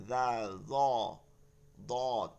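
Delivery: জাল, জ, দত said softly; soft articulation. Shown as a demonstration. Teacher repeating the soft letters for students, each softly articulated. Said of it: "এই যে নরম পড়তেছি".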